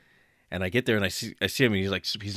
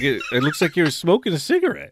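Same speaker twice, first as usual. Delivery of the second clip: laughing accusation; 9 semitones higher, 5 dB louder than usual. Retold or imitated. Confronting him, laughing.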